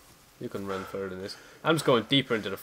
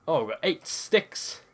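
excited; 5 semitones higher, slower than usual. Real, not acted. Counting loot, delighted.

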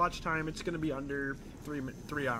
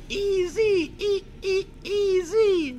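hype shout; 9 dB louder, much slower than usual. Real, not acted. Hype calls over a beat.

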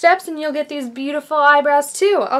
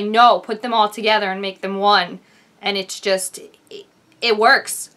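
Grace Helbig. Acted. Impersonator reviews awards show looks, light YouTuber impression. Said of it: "my name's Grace Helbig".

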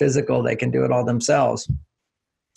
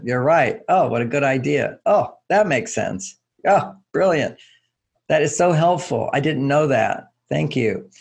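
appreciative. Shown as a demonstration. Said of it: "I'll say it again".

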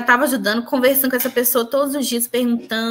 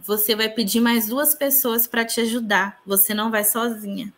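lightly voiced calm guidance, a little softer at the end; tranquil good voice; 4 dB quieter than usual. A good voice tells her to ask for help, mildly tranquil. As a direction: gently imitate a reassuring voice. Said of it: "a voz que eu ouço que é tranquila é a do bem".

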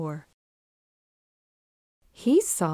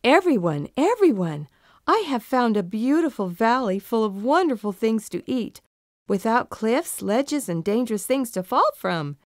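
cried out; 2 semitones higher than usual. Acted. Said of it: "Thaddeus cried out to his family".

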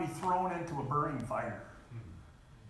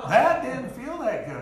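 laughing; 7 semitones higher, 5 dB louder than usual. Real, not acted. Rueful story of burning himself.

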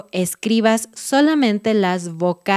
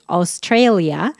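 English accent; slower than usual. Shown as a demonstration. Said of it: "esa A suena diferente".

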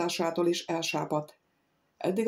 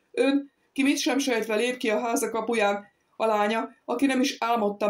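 oratorical tone; 2 semitones higher than usual. A narrator's reading. Wife lecturing husband about danger, mild oratorical declaiming. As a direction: declaim it like a speech. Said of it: "oratóriumi tónusban folytatta".

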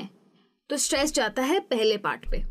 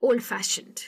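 ओल्ड फैशन्ड with the stress landing on फैशन्ड; stress on second part; 3 semitones lower than usual. Shown as a demonstration. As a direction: say ओल्ड lightly, then hit फैशन्ड. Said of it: "फैशन्ड पे जाएगा". (ओल्ड फैशन्ड में फैशन्ड पर ज़ोर)

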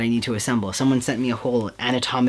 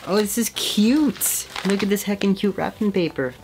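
high-pitched squeal of delight; delighted gushing; 9 semitones higher than usual. Real, not acted. Vlogger showing cute wrapping paper, gushing in delight. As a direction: coo over it, pitched way up.

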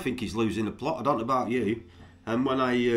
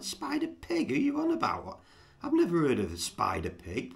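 incredulous; 4 semitones higher than usual. Retold or imitated. Vlogger retelling his baffled reply, high and incredulous. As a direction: pitch jumps way up, then drops back. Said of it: "I'm like".

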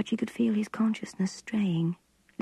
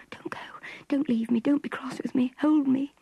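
pleading whisper; 6 semitones higher than usual. A narrator's reading. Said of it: "she whispered".

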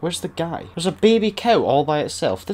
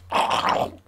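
strange noise; 3 dB quieter than usual. Real, not acted. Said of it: "worst noise I think I've ever fucking made".

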